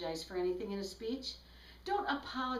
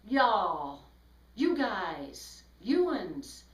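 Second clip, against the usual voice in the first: mock audience address; 6 dB louder, much slower than usual. Shown as a demonstration. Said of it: "don't say".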